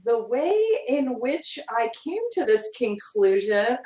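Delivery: slow, stilted read-aloud. Acted. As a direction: read it out slowly and stiffly, word by word. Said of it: "Read that out loud and they'll go".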